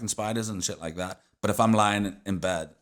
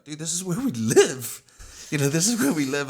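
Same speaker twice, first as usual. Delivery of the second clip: retold shouting; 8 semitones higher, 5 dB louder than usual. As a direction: hammer home the point, half yelling. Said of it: "I'm, like, shouting at him".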